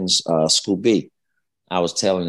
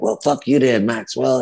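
mild mock anger; 5 semitones higher than usual. Retelling a shouting match with fan.

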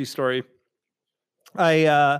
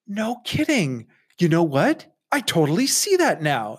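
mock amazement; 3 semitones higher, 3 dB louder than usual. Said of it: "And I went".

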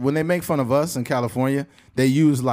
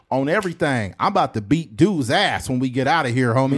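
lightly voiced West Coast gangbanger; California gangbanger; 3 semitones lower than usual. Gangbanger out here threatening some dude, imitation California gangbanger. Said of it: "our game bangers out here".

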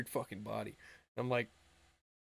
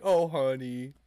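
louder, patronizing sigh of a voice; condescending; 5 dB louder, slower than usual. Retold or imitated. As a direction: talk down to him like a child. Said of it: "condescending almost".

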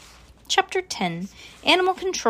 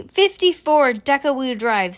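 ordinary delivery

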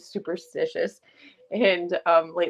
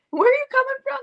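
much higher and louder, disbelieving; astonished question; 6 dB louder, faster than usual. Retold or imitated. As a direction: yelp it in amazement. Brandon asks the Texas crew.

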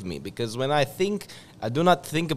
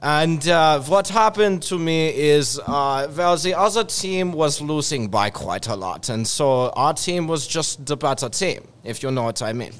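put-on Russian accent; 4 dB louder than usual. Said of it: "the Russian accent".

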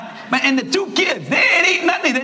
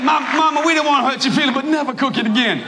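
lightly voiced pleading kid; 5 semitones higher than usual. Kid asks his mother, lightly voiced plea. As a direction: beg gently but firmly. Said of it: "the kid said".

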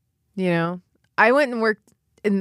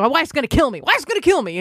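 high, mock-despairing whine about his wife; whining funeral director; 7 semitones higher, faster than usual. Funeral director dreading his wife, high mock whine. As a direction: moan it like a doomed little husband. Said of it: "He's like".

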